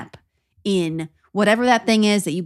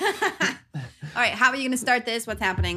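laughing; 2 semitones higher, 6 dB quieter, faster than usual. Real, not acted. Laughing while asking.

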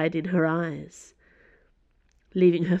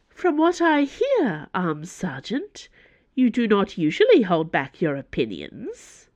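lightly voiced Cardinal, slow and high at the start; a hint of lofty prodding, drawn out; imperious Cardinal goading; 3 semitones higher than usual. Cardinal goads Dana.

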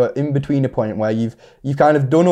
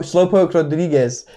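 slow cartoon Mexican accent; drawn-out Mexican pronunciation; 3 semitones higher than usual. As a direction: roll it out slowly in a mock-Mexican accent. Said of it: "it's a good accent".

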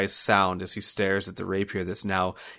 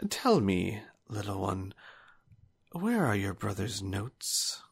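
high, soft, slow tutting menace; mocking villain; 3 semitones higher, 4 dB quieter, slower than usual. Old swordsman mockingly scolds the younger sister. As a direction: scold her like a naughty child, then coax. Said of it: "he goes".

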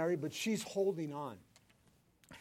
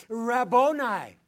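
awed reply; 5 semitones higher, 13 dB louder, slower than usual. Acted. Mary answers Jesus.

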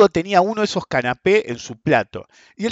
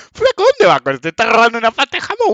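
higher, louder, quick guard calling out; mock guard yell; 6 semitones higher, 3 dB louder than usual. Security guard stopping the man with the ham, mock yell. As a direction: stop the thief with a hammed-up yell.

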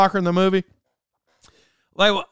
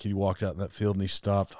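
hunter guy; 10 semitones lower, 10 dB quieter than usual. Retold or imitated. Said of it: "He's like".

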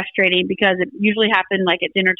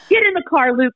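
urgent command; 5 semitones higher than usual. Retold or imitated. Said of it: "I'm like".

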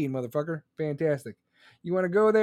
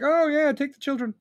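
higher, sarcastic oh yeah; mock-cheerful sarcastic yes; sarcastic mock agreement; 8 semitones higher than usual. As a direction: play the gullible parent, mocking. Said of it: "you think we're just gonna be like".

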